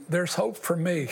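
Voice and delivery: hopeful words through a chuckle; laughing with relief. Retold or imitated. Joy at hearing the preacher.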